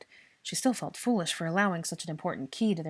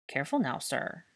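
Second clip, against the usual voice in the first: gentle admonishing. Acted. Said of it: "admonished gently".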